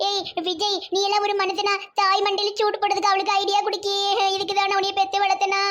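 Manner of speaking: hammed-up aggrieved lament; wailing loudly. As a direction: scold your son in a wailing complaint. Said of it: "அத்தம்மா ரொம்ப கத்திக்கிட்டு இருக்கு".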